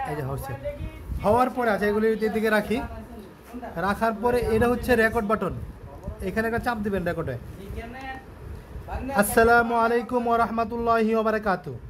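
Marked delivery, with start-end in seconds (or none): none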